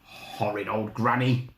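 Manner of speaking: slow, lightly growled grumble; a touch of a sulky wolf; growling wolf. Acted. Wolf rubbing his sore nose, slow light growl. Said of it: "the wolf growled".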